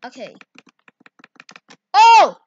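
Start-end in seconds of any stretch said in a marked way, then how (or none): 1.9-2.4 surprised. Real, not acted. Sudden reaction while editing.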